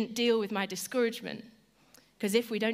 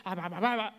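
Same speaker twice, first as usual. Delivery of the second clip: annoyed blah blah; faster than usual. Shown as a demonstration. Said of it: "That's what I do when I'm annoyed".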